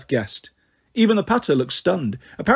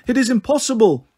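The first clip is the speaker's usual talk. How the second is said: disbelieving ghost; 7 semitones higher than usual. Acted.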